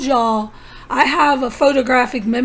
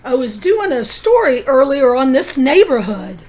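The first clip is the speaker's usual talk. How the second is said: nervous; 5 dB louder than usual. Retold or imitated. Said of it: "he looked nervous that I pegged him".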